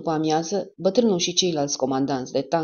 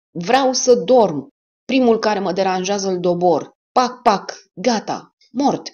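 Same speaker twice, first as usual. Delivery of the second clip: loud, very slow, higher roaring threat; bellowed; 4 semitones higher, 6 dB louder, slower than usual. Acted. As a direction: roar the threat out the window. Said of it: "a mugit".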